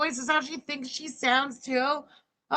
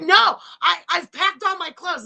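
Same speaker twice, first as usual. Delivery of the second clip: tag; 6 semitones higher, 5 dB louder than usual. Retold or imitated. Mock quote of stubborn woman.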